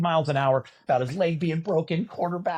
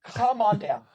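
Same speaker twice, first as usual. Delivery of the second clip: game show announcer; 7 semitones higher, slower than usual. Retold or imitated. Announcer summoning a contestant, booming showman. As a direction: belt the catchphrase like the host.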